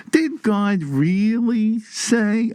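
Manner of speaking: put-on high, very drawn-out Brooklyn Jewish accent. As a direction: stretch each word in a Brooklyn Jewish accent. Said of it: "with that Brooklyn Jew accent".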